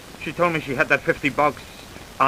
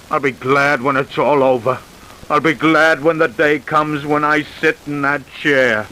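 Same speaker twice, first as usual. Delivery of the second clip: resigned and empty; hopeless; 5 semitones lower than usual. Acted. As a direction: speak like a man who has given up on living. Killer confesses, wants death.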